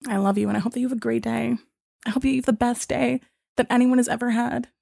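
soft, tender send-up of a support agent; mock loving. Agent signs off to refused customer, mock loving. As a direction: lay on the kindness softly, with pauses. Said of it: "This was the kindest conversation".

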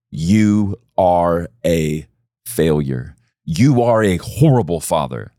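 drawn-out accusing voice; slow taunting lie. Pretend. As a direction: stretch "You are a" out slowly, then land on "failure". Voicing the lie slowly.

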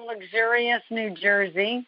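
slow, drawn-out sarcastic boast. Real, not acted. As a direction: stretch it out with dry sarcasm. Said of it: "I say that with sarcasm".

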